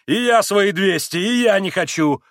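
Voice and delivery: emphatic high-voiced refusal; exclaimed refusal. A narrator's reading. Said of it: "воскликнул Митя".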